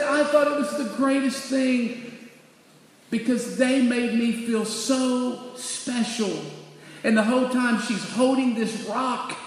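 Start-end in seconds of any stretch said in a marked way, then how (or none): 0.0-6.4 higher-pitched retold tearful gushing; touched, mildly tearful child voice; weeping child. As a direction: lightly imitate a girl overcome with tears. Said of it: "And she's weeping".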